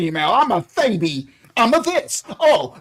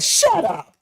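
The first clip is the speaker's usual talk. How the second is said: 1 snapping shout; 11 semitones higher than usual. Real, not acted. Ranting at the whiny nation.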